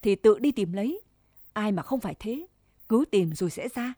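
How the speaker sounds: a touch of bitter pain, understated; lightly bitter advice to a rival; bitter and rueful. Acted. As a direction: say it with a mild bitter sting. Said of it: "giọng xót xa cay đắng".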